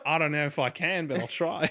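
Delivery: amused mock Aussie; put-on Australian accent with a laugh in it; playful Australian reply. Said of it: "talk the rest of this episode in that accent".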